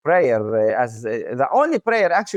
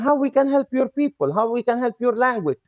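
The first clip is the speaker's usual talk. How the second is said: raised-pitch quote of eager helpers; people asking to help; 5 semitones higher, much faster than usual. Retold or imitated. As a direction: quote their offers in a higher voice. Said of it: "I saw people asking me".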